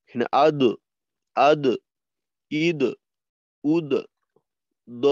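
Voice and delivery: আদ with a light downward echo on দ; light qalqala. Shown as a demonstration. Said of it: "পাতলা কলকলা, নিম্নমুখী".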